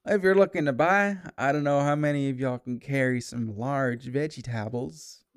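folksy rat vendor sizing up buyers; old rat trader. Acted. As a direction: pitch your wares as an old rat. Game master plays cart rat.

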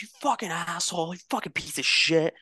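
high mock outburst at a rival player; imitating an angry player cursing; retold angry cursing. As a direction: spit it out like a furious opponent. Angry opponent yelling at him.

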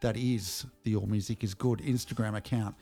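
measured podcast host read; deliberate announcer-style read with pauses; scripted segment intro. Acted. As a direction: present the segment with mock-formal ceremony.

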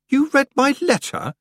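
high-pitched appalled question; aghast at the intrusion; shocked, voice jumping right up; horrified. A narrator's reading. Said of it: "said Tiffany in horror".

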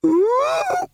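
high ape hoot, shouted; a high excited orangutan cry. A narrator's reading. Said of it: "said the librarian".

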